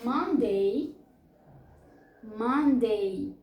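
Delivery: "Monday" said slowly as MUN-day, both syllables drawn out; model pronunciation. Shown as a demonstration. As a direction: model "Monday" clearly for students to repeat. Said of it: "vamos pronunciar cada uma delas".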